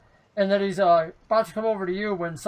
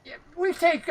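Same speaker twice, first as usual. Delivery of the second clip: halfling voice; 10 semitones higher than usual. Acted. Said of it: "he goes".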